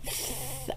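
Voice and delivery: S with the tongue poking between the teeth; a child's frontal lisp. Shown as a demonstration. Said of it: "I can see your tongue".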